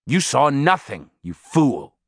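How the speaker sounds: a touch of gruffness, lightly voiced; mildly rough scolding, not shouted; gruff. A narrator's reading. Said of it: "he said in a gruff voice".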